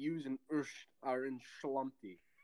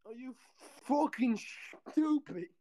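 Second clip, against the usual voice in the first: put-on high, loud Texan accent; Texan accent, half-English; 10 semitones higher, 4 dB louder than usual. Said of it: "do your Texan accent".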